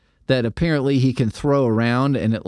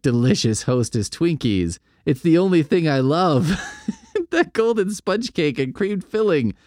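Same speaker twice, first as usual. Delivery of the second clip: laughing rapture; 7 semitones higher than usual. Acted. The Fly raves, laughing.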